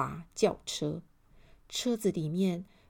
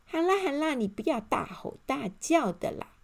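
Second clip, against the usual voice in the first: placating elf; 6 semitones higher, 3 dB louder than usual. A narrator's reading. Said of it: "小精灵出现了".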